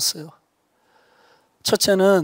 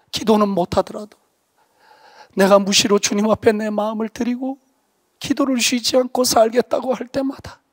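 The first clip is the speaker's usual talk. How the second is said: higher pitched solemn prayer, whispering in places; earnest vow prayer; 4 semitones higher than usual. Retold or imitated. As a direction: pray it like a lifelong vow. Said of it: "내가 그때 주님께 약속했어요".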